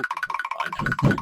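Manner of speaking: very high, slow squeaky voice; squeaky falsetto. Acted. Joke after crude remark.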